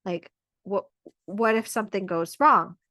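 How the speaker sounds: lightly voiced doubtful partner reacting to home birth; worried partner. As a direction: voice the nervous partner hearing the plan. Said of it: "your partner might be like".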